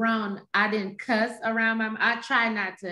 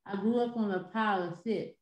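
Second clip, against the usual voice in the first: holding the tongue while talking; tongue sticking out; 5 dB quieter than usual. Shown as a demonstration. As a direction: say it with the tongue held. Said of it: "when you hold your tongue and say".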